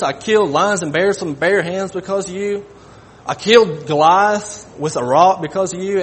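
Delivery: pleading outrage at being refused; a wounded believer demanding why; indignant complaint. Pretend. Imagined complaint of David to God.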